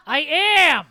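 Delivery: loud, high shout back. Acted. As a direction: yell it across the house. Mom shouts back at dad.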